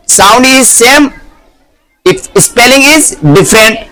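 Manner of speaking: very slow, spelled-out explanation; slow emphatic rule. Shown as a demonstration. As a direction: drive the point home slowly. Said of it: "teacher stresses the rule".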